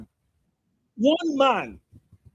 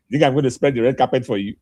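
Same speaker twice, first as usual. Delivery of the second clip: mock politician; 8 semitones lower than usual. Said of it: "he's saying".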